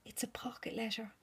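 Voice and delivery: soft amazed whisper; awed whisper. Real, not acted. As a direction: whisper the discovery. Reveals the gift.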